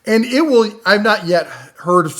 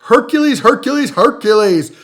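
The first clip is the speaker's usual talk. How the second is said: excited; 5 semitones higher, 5 dB louder than usual. Acted. Hyping product name like announcer.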